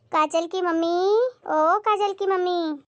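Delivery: long drawn-out call across the house. Acted. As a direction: call out to Kajal's mother from the door. Calling the neighbour from outside.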